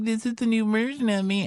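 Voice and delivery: very high, mocking falsetto; mocking reformed guy. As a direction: squeak it like a rehearsed PR line. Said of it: "they come back like".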